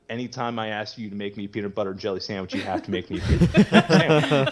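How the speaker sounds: half-laughing bossy sibling demand; laughing mock demand. Friend's brother setting his amends terms, laughing mock demand. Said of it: "I think he said his brother's like".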